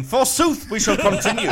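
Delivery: hammed-up olde English pronouncement; Victorian. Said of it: "I'm talking like a Victorian".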